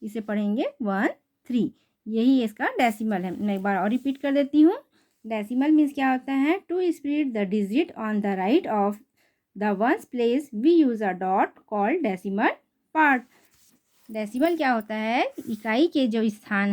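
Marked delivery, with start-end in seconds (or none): 0.8-1.7 वन and थ्री as separate digits, short pause between; digits read separately. Shown as a demonstration. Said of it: "अलग अलग पढ़ेंगे". 6.6-13.2 very slow, word-by-word textbook reading; reading a definition. Shown as a demonstration. Reads textbook definition aloud.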